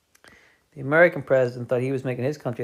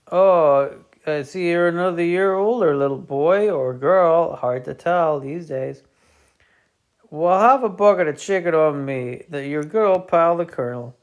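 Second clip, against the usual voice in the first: colonel impression; 4 semitones higher, 4 dB louder than usual. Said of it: "my colonel impression sounds an awful lot like my regular voice".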